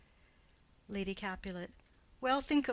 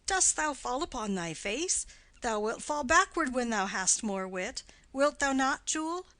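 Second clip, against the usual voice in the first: put-on louder, playful husband teasing a toddler; 3 semitones higher, 5 dB louder than usual. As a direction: chuckle it to the little girl. Nurse voices husband teasing child.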